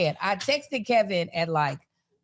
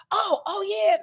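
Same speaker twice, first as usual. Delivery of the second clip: mock choked-up; 11 semitones higher than usual. Imitates Marcus choked up congratulating.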